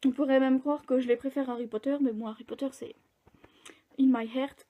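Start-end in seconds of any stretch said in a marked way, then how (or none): 4.0-4.6 French speaker putting on an English accent. Real, not acted. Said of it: "on s'en fout de mon accent anglais".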